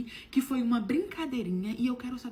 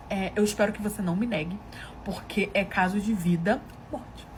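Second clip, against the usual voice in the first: grave, hesitant plea; 5 dB louder than usual. Retold or imitated. Husband asking his wife a life-or-death favour, gravely. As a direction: imitate a halting, solemn confession. Marido prepara um pedido grave.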